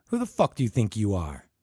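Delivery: loud, scornful jeer; angry scoff. Acted. Ted jeering at Charlie, loud and scornful. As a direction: sneer it at him.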